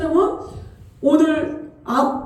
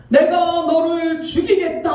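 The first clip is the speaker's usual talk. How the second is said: sudden booming voice; 2 semitones higher than usual. Retold or imitated. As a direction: boom it down like a voice from above. God's sudden voice in vision.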